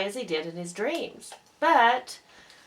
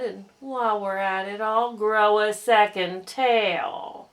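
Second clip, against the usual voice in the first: dry gloomy donkey. Acted. Eeyore mocking Pooh's hope, slow and dry. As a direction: drag it out, utterly unconvinced.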